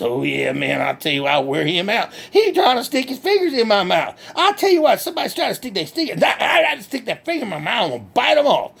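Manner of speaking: lightly voiced country hick, cheerful and boastful; redneck Bubba. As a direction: play a proud backwoods redneck bragging. Bubba on the dentist.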